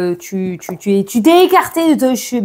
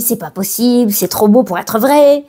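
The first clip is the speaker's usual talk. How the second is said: doubting inner voice. Acted. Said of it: "quand j'ai fait la petite voix".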